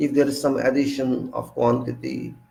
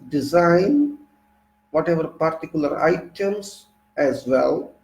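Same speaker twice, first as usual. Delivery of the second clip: reading aloud; 3 semitones higher than usual. Real, not acted. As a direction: read the textbook passage to the class. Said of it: "So let me read first".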